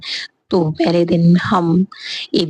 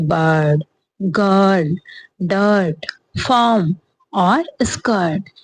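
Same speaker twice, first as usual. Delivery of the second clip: whispered word list; much slower than usual. Shown as a demonstration. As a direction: whisper the last example words. Reading example words. (फुसफुसाकर शब्द पढ़ना)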